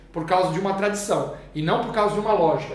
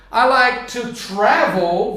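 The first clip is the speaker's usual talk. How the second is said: slow modeling; 4 dB louder, much slower than usual. Shown as a demonstration. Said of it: "teacher models the answer".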